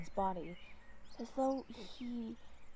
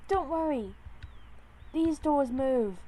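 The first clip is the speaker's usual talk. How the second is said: small kitten voice; 5 semitones higher, 6 dB louder than usual. Acted. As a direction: reassure like a tiny kitten. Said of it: "a small kitten below seemed to say".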